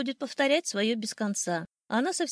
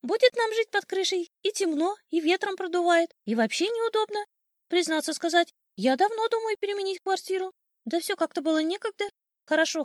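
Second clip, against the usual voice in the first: high, loud, self-satisfied bird voice; boastful old sparrow, chattering; 7 semitones higher, 5 dB louder than usual. Acted. Sparrow telling his wife of their new home, high and boastful.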